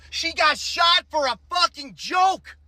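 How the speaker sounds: outraged shout. Real, not acted. Outraged reaction to shooting video.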